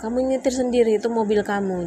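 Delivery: imitating husband's harsh outburst; husband snapping. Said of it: "Dia bentak saya".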